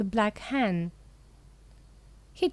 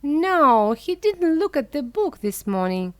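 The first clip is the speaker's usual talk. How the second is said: louder, raised protest from the whole class; children shouting; 4 semitones higher, 4 dB louder than usual. A narrator's reading. Schoolchildren contradict Alyosha to the headmaster, loud shout. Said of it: "the children shouted".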